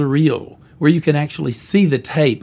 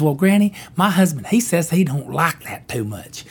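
put-on girl voice. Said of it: "And the girl says".

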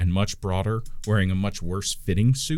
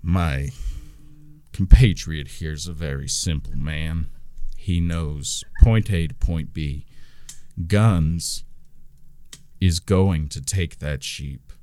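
menacing gnome; 4 semitones lower than usual. Acted. Gnome warns the party before a fight, low and menacing. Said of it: "the gnome goes".

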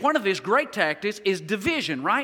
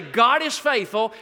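slow demo call; slower than usual. Shown as a demonstration. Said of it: "Why don't you guys say".

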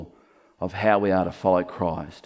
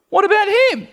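squeaky high whine, much higher and louder; high-pitched voice; 6 dB louder than usual. Pretend. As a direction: Peter asking in a silly high squeak. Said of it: "in a high-pitched voice like that".

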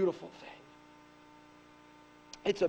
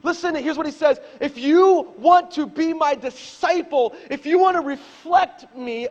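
preaching; 7 semitones higher, 11 dB louder than usual. Acted. Pastor voicing Jesus to the church, loud preaching. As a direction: proclaim each line, pounding the want.

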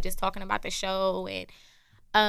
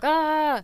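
high, loud mock yell; imitated angry yell; 7 semitones higher, 6 dB louder than usual. Teasing a little boy about his tantrums, mock yelling. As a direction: mimic a kid's mad holler. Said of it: "you start yelling and you be like".

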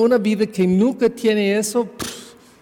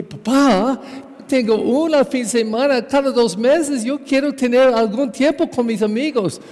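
higher, insistent protest to his father; pleading protest; 6 semitones higher than usual. Retold or imitated. Teenage son arguing with his father over weekend work, raised and insistent. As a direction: push back hard, voice raised in pitch.

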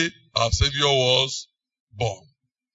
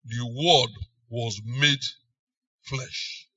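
softer, sinking to a whisper on flesh; hushed reverent; 5 semitones lower, 10 dB quieter, slower than usual. Shown as a demonstration. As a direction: draw listeners in, whisper the word flesh. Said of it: "definite, emphasis".

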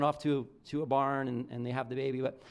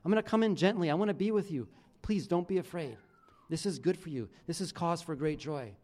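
gentle reassurance. Retold or imitated. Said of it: "He says".

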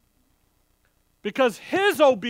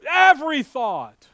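Every punched loud, falling on thought; stress on Every thought; 5 dB louder than usual. Shown as a demonstration. Preacher repeating the point, loud on Every. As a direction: hit Every thought hard the second time.

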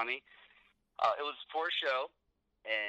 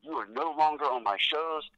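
retold chewing out; 4 semitones higher, 4 dB louder than usual. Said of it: "he's going off on me".

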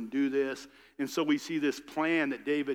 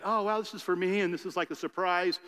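imitated delight, pitched up; mock wide-eyed, higher voice; pleased surprise; 4 semitones higher than usual. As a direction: play a guest happily taken by surprise. Voicing Naboth pleased by surprise party.

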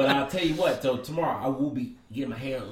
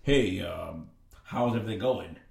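lower, lightly voiced manager greeting; a hint of a smooth manager checking in; mock manager asking the diner; imitating the manager; 8 semitones lower than usual. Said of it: "bring the manager ... like this".

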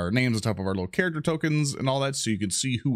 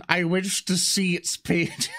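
higher, slow theatrical yearning; mock longing; 6 semitones higher, slower than usual. Player begs to see Jason's unreleased book, mock longing. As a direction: draw it out like a grand mock plea.

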